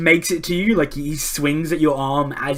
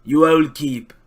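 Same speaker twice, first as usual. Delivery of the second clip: commanding start, slowing to a whisper; single someone out, then trail into breath; pirate captain; 4 dB louder, slower than usual. Acted. Pirate captain points at the musician, commanding then hushed. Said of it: "He points at Mock. He says".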